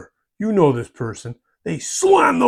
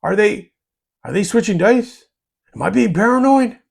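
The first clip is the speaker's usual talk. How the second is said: suspicious inner voice; 4 semitones higher than usual. Retold or imitated. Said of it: "Your opponent's brain is going".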